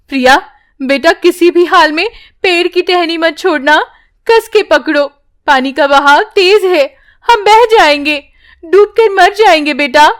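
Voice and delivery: mother urging her daughter to grip the branch; urgent mother. Acted. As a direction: beg your child to hold on.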